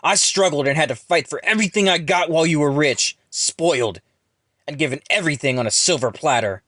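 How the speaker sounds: loud, high, bitter rant; furious arguing. A narrator's reading. Ron resents rich Jackson, arguing furiously. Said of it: "Ron then argues".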